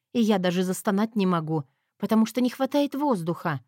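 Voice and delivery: ordinary delivery, nothing marked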